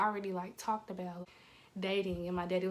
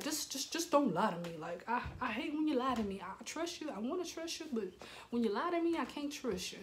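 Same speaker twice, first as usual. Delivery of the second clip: higher, halting plea; re-enacted wounded appeal; imitating earnest dad; 4 semitones higher than usual. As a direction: plead for honesty, voice lifted. Dad pleading not to lie.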